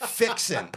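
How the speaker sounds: fixin' drawn out Southern-style with a laugh; Southern word fixin'. Shown as a demonstration. Man mocking his own Southern slip, laughing fixin'.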